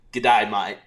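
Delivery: G'day mate in a mock Australian accent; a loud Aussie greeting, mate; hearty mock Australian G'day. Shown as a demonstration. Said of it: "the first thing I have to say".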